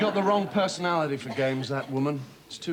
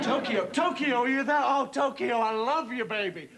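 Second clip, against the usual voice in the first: higher, coaxing sweet talk; pleading trader; 5 semitones higher than usual. Acted. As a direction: woo the other desk. Trader sweet-talking Tokyo.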